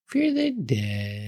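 slow hushed spooky chant; spooky intro voice. Pretend. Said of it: "Now it's time".

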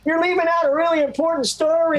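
high-pitched mock voice of a prompting wife; imitating wife. Wife prompting husband to tell his story, high imitated voice. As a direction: mimic a wife's high-voiced reminder. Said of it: "She's like".

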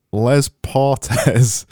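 put-on half-hearted French accent on "Les Portes"; mock French accent. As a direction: try "Les Portes" as a bad French accent, lɛz pʰɑɹtɛz. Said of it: "I'm gonna try it in my best Yorkshire slash French accent".

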